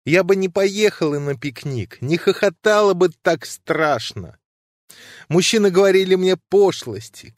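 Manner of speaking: pleading heroine, mildly tearful; distraught woman pleading. Acted. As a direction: let her voice climb in anguish, slowing on the sins. Nadezhda's sobbing lament.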